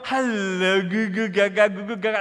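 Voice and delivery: cooing at a newborn; baby talk. Retold or imitated. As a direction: coo nonsense to a new baby. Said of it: "when the baby comes home, what do you do".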